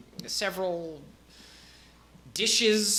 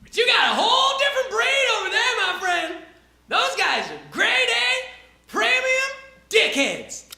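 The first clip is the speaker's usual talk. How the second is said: much higher, laid-back dude voice; Dale the peasant; 4 dB louder than usual. Acted. Peasant Dale introduces himself, high and chill. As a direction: shrug it off easily. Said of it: "and he says".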